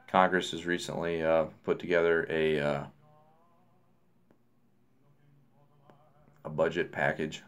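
talking around pipe stem; pipe in mouth. Real, not acted. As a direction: lips clenched on pipe. Seen 0: Pipe stem held between lips throughout the labelled words, with smoke visible.

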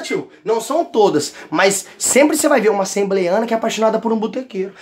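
ordinary talk, nothing marked

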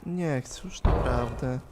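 mock whimper. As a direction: whine quietly like a scared kid who won't go on. Whimpering to viewers, much softer.

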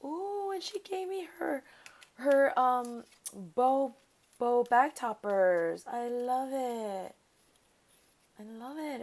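high, gasping delight growing loud; thrilled. Real, not acted. Crafter finding her friend's bow bag toppers, thrilled. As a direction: start high, then belt it out with drawn-out words.

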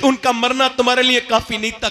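normal talking voice

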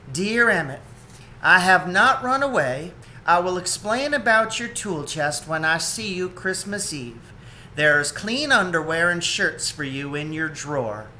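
a lightly voiced mother otter; Ma reading her note. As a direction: read it as Ma, plainly.

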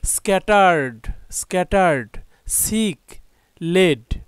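isolated "স্ক্যাটার্ড", repeated with a falling end; teacher modelling "স্ক্যাটার্ড, সিক, লেড" word by word; pronunciation drill. Shown as a demonstration. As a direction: read "সিক", "লেড" as separate clear words. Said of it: "উচ্চারণগুলো জেনে নেই".

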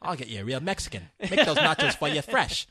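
laughing mock-Aussie accent; Australian accent. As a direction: play an Aussie barman through giggles. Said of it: "I'm doing an Australian accent".

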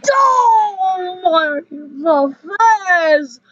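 drawn-out crying moan, very slow; hammed-up wail.

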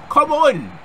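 loud, high, stretched-out yell; frustrated yell. Real, not acted. Gamer protesting that nobody helps, frustrated yell. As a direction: yell it long at the game. Pleading with the game as pinned.

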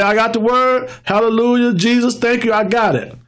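slightly hammed-up eager praise; emotional believer. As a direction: mimic a believer's easy enthusiasm. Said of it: "They're emotional".

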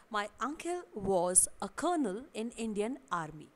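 slow example read. Shown as a demonstration. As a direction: read out slowly and clearly as an example sentence. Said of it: "the first sentence is". (धीरे और साफ़ उदाहरण वाक्य)

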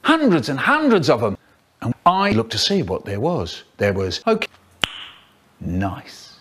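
choppy sentence-mixed clips; words cut and stitched from different takes; spliced words. Acted. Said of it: "faster than science sentence mixing".

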